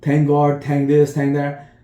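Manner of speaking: bursting with thanks, high and loud; overjoyed relief. Retold or imitated. Father relieved his sick daughter is safe, high gushing joy. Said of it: "like, happy".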